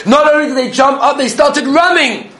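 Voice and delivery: high, loud, laughing amazement; high laughing excitement, slowing on running; excited. Real, not acted. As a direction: tell it with rising laughing wonder. Excited climax of story.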